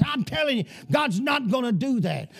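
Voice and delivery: fiery preaching. Acted. Pastor warning his church the nation has gone crazy, fiery sermon voice. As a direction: preach it hard to a congregation, full of alarm.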